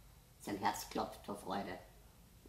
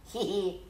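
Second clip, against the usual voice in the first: a quick high, louder giggle; 8 semitones higher, 7 dB louder than usual. A narrator's reading. Squirrel giggles at the other animals, high giggle. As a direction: titter like a cheeky squirrel. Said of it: "kicherte das Eichhörnchen".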